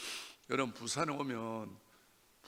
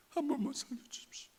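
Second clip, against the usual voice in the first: whispered plea; 12 semitones higher than usual. Retold or imitated. Begging God to save wife.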